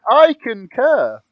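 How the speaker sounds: drawn out through laughter; laughing. Real, not acted. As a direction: say it slowly while laughing hard. Repeats the line while laughing.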